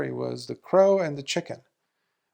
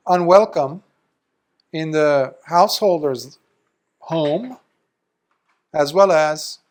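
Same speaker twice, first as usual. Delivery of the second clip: louder, firm reproach to a monk; stern rebuke; 5 dB louder than usual. Retold or imitated. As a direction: lay down the rebuke firmly.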